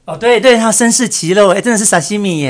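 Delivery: high, loud burst of delight at the joke; light up as the pun finally lands; excited realization. Real, not acted. Co-host suddenly gets the sashimi pun, loud and delighted.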